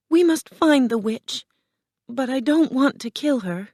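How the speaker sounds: resolve, then protest in a high voice; earnest Dorothy. Acted. Dorothy tells friends she won't kill, high earnest voice.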